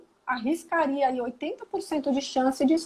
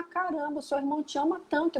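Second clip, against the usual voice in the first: much softer, gentle coaxing; soft appeal; 7 dB quieter than usual. Shown as a demonstration. To a child who pulls his brother's hair, gently soft. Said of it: "se você falar".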